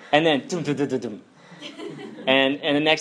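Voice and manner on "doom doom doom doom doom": quick run of mouth-made thuds; imitated running footsteps. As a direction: mimic little feet thumping along. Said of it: "you hear this jump".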